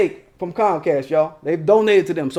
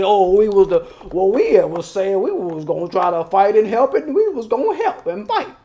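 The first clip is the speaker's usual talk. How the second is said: mock caucus voice. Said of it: "y'all wanna be there and say".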